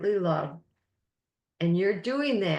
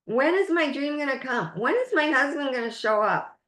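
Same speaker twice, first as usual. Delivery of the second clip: mock whining; 4 semitones higher, faster than usual. Shown as a demonstration. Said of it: "this is whining".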